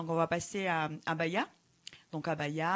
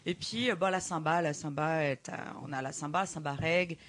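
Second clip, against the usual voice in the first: Brazilian accent in French; foreign accent in french. Real, not acted. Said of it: "excuse-moi mon français".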